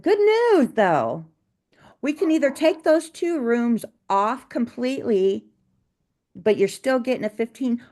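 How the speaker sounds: sweeten the bad news with a chipper lilt; sugary customer-service voice. Owner breaking a price hike to a difficult client, mock-cheerful.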